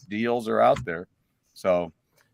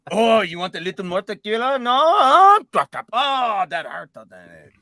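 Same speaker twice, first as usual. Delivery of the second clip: mock taunting tormentor; 9 semitones higher, 6 dB louder than usual. Plays the tormentor with tequila drops.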